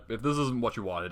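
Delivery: ordinary talk, nothing marked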